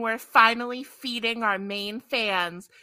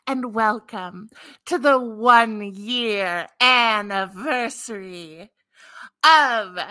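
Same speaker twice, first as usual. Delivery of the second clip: slow, dramatic vampire welcome; 6 dB louder, slower than usual. Pretend. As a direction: drawl it like a theatrical vampire. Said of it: "why am I got into vampire voice?".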